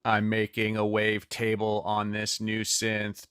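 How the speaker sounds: slow, even robotic monotone. Shown as a demonstration. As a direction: talk like a robot, deliberately. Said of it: "talking like a robot".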